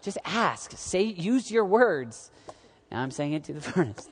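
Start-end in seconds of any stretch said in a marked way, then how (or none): 0.0-2.3 slow, coaxing parent voice; patient parent to toddler. Retold or imitated. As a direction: coax a toddler to speak. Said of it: "and I'm like".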